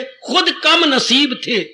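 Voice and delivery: slow, measured verse recitation; unhurried poetic couplet, savouring the lines; recited couplet. Shown as a demonstration. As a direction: lay out each word of the couplet slowly. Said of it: "महापुरुष क्या कह गए".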